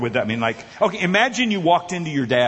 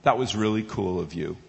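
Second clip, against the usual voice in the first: put-on counter girl; 8 semitones lower, 4 dB quieter than usual. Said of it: "this sixteen-year-old girl behind the counter goes".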